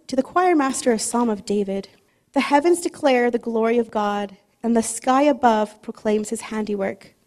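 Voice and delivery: measured, unhurried reading of a psalm; reverent, deliberate reading pace; slow scripture reading. Acted. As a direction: read aloud slowly for the congregation to follow. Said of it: "I would like to read it slowly together".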